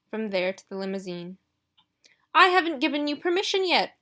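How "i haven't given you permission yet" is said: higher and louder, offended objection; Marley objecting as Ruby walks off; indignant protest. Acted. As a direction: bristle like an affronted butler. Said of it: "protested Mister Marley".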